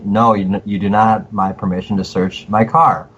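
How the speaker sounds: clear, firm, spoken out loud. Shown as a demonstration. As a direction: state it firmly so it is recorded.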